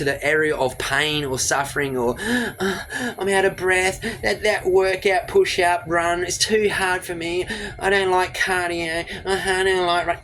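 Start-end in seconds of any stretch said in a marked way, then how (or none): 2.2-10.2 breathy, slow, put-upon complaining; mock whiny excuse voice. Coach mocking a lazy viewer in a whiny put-on voice. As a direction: whine like someone too lazy for cardio.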